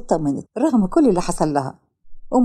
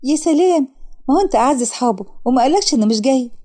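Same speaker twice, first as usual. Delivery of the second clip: put-on higher young woman's voice, fast and indignant; lightly voiced young woman; 3 semitones higher than usual. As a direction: play the secretary, put out and scolding. (سكرتيرة مندهشة ومستاءة بصوت أعلى)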